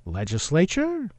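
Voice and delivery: "legislature" drawn out slowly, rising like a question; slow down and turn "legislature" up into a question; questioning uptalk. Shown as a demonstration. Host letting his family's way of talking slip out, questioning uptalk. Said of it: "Sometimes you'll see it come out of me".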